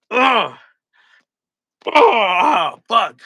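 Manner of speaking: loud cry of pain after the hit; pained shout. Real, not acted. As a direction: yelp as the can hits your head. Hits himself again.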